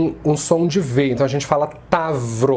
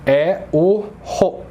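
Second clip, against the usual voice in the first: "ro" stretched slowly; teacher slowly names the stressed syllable; stressed syllable named; 2 semitones higher, slower than usual. Shown as a demonstration. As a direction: draw out "é o ro" slowly. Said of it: "a sílaba mais forte".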